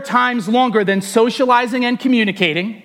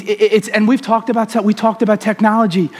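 ordinary talk, nothing marked

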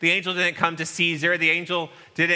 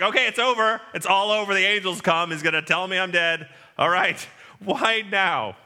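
mildly panicked, raised voice; mock panic; 3 semitones higher than usual. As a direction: play a shepherd sure it's all over. Shepherds think it is the end.

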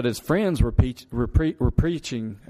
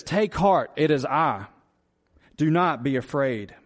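words of grace. Acted. Preacher voicing Jesus calming his disciples, reassuring. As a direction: speak it as gentle grace to frightened men. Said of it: "He immediately speaks words of grace".

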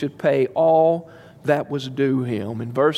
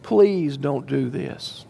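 begging; 4 semitones higher, slower than usual. Acted. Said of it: "he begs him".

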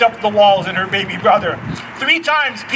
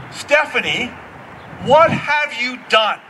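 stern voice; 2 semitones higher, slower than usual. Retold or imitated. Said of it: "in a very stern voice".

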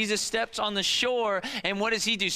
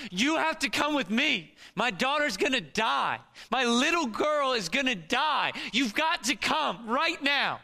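higher and urgent, begging a stranger for help; desperate pleading; 5 semitones higher than usual. Pretend. Pastor voicing Jairus begging Jesus to come now, desperate and urgent. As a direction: plead as if your child is dying. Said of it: "What was it like?".

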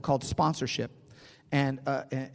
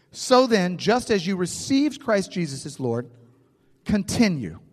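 raised, deliberate reading with weight on "continue"; emphatic scripture reading; 2 semitones higher than usual. Real, not acted. Preacher reading Colossians to the congregation, emphatic. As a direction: proclaim the verse, setting "continue" apart after a pause.

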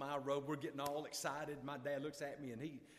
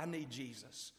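quiet, slightly lowered admission; soft confession; 5 dB quieter than usual. Retold or imitated. Father admits his need to his son, soft confession. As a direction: say it softly, with a slow fall. Retold tearful confession of faith.

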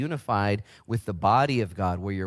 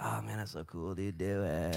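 much softer, low easygoing dude voice; lightly voiced laid-back pastor, much softer; imitating Pastor Bo; 3 semitones lower, 10 dB quieter than usual. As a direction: hand over casual approval, laid back. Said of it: "He's like".

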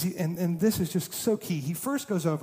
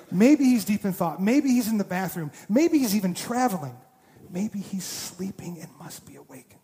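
trash talk. Retold or imitated. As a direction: rattle off the jabs with relish. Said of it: "Elijah is talking trash the whole time".

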